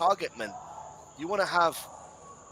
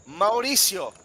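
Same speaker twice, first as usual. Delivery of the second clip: higher, louder, mounting commentary; tense build-up; 7 semitones higher, 5 dB louder than usual. Real, not acted. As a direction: build tension before the kick. Build-up to penalty.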